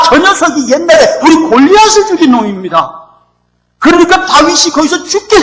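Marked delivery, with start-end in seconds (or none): 0.0-3.0 servants' accusation. Retold or imitated. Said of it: "신하들이 ... 보더니".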